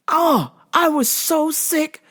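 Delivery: slow, laughing till crying; almost in tears from laughing. Real, not acted. Laughing at own story.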